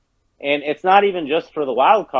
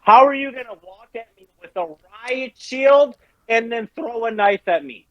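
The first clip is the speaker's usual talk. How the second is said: incredulous, rising higher pitch; angry rant; 6 semitones higher than usual. Real, not acted. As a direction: rant at the opponent. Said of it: "we've completely derailed".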